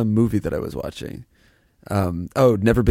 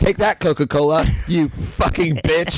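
mock taunt; 5 semitones higher than usual.

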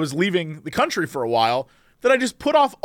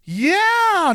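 dismissive doctor; 12 semitones higher than usual. Retold or imitated. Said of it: "they were just like".

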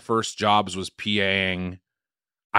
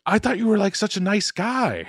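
annoying disappointed boss; 9 semitones higher than usual. Retold or imitated. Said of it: "she kind of annoyed me 'cause she was like".

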